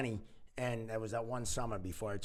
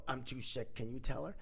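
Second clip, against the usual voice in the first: a touch of faked weakness, softer; feeble sick voice; 5 dB quieter than usual. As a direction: play it helpless and ill, quietly. Pretending to be too sick.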